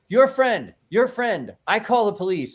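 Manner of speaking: put-on high, loud alarmed foreign-accented cry; a frantic shop owner; upset Mama. Mama from Ace Burger reporting the friend: high, loud alarm. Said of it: "She's like".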